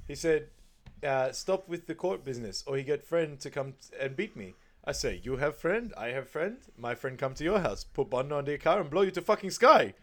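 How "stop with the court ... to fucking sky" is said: raised, animated immigrant-uncle voice, building to a laugh; a lightly voiced Farouk threatening back; imitating Farouk. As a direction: play Farouk boasting, getting louder. Farouk quoted in broken English.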